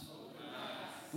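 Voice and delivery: whispered softly. Shown as a demonstration. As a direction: whisper it back. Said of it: "Everybody say".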